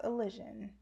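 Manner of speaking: "Elysian" said ih-LIZH-un; correct pronunciation. Shown as a demonstration. Explaining the channel name to viewers, clear pronunciation of "Elysian" as ih-LIZH-un. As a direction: say "Elysian" with a short i and zh. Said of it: "It's pronounced".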